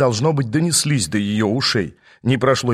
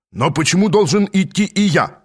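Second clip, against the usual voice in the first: higher-pitched protest; objecting; 6 semitones higher than usual. A narrator's reading. Плохсикир objects to going along, protesting. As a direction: push back in protest. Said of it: "возражал Плохсикир".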